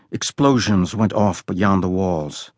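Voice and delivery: usual speaking voice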